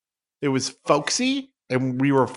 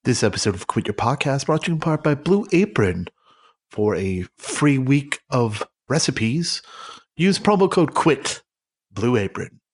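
mock sponsor read; 2 semitones lower than usual. Host reading a fake sponsor spot, ad style. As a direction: read it like a podcast ad.

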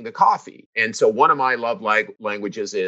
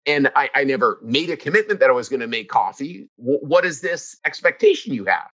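defensive protest. Retold or imitated. Husband to wife over the coffee, a mock indignant whine. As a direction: protest like you've been wrongly accused. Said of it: "I would get".

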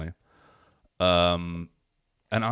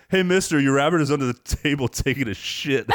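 mock kid call-out; 5 semitones higher than usual. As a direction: pipe up like a cheeky kid at a show. Second kid calls out.

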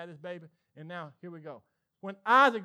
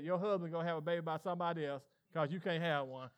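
ordinary talk, nothing marked

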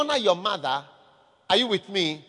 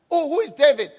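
mocking scoff; 3 semitones higher, 4 dB louder, faster than usual. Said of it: "This is how people talk".

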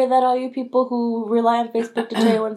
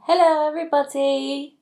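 put-on light, joking posh British accent; a hint of a British royal-watcher accent; mock British accent; 4 semitones higher than usual. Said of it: "Sorry for the weird accent".

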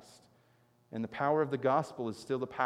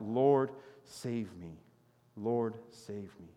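cried out; 2 semitones lower, slower than usual. Acted. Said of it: "he cried out".

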